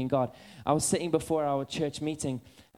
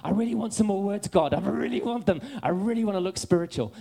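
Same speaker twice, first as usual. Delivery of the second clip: eager pleading prayer; 4 semitones higher than usual. Retold or imitated. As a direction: plead like a greedy child in prayer. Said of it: "And I'm there going".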